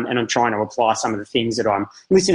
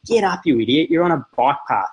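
higher, mildly raised scolding; retold raised voice; 3 semitones higher than usual. Dad retelling how he scolded his crying son, mildly raised voice. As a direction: imitate a frustrated telling-off without full shouting. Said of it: "really raised my voice".

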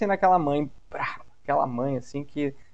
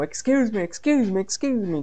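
hurried excuse me; 7 semitones higher than usual. Shown as a demonstration. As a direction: push through a crowd saying "excuse me". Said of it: "tu sai correndo dizendo". ("excuse me" apressado, mais alto, abrindo caminho)

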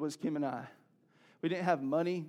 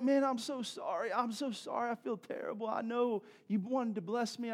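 mock apology; 6 semitones higher than usual. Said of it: "I was like".

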